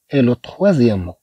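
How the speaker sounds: et le troisième mot said slowly and softly; slow teacher repetition. Shown as a demonstration. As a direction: repeat it slowly so pupils catch it. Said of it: "le premier mot".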